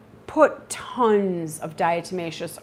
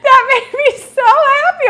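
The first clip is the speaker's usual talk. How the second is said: much higher, louder, still laughing; happy excitement; 13 dB louder than usual. Real, not acted. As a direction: gush with real delight. Laughing with co-host.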